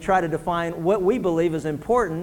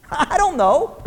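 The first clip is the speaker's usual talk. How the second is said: laughing admission; 9 semitones higher, slower than usual. Real, not acted. Laughs at the mystery.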